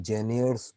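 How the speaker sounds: जेनियर्स said the American English way, as transcribed; American English pronunciation. Shown as a demonstration. Teacher showing students the American variant, जेनियर्स in American pronunciation. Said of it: "American English में".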